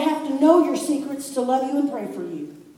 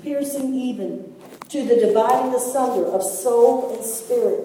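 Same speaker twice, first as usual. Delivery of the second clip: scripture reading; 4 dB louder than usual. Acted. Reads scripture aloud to congregation.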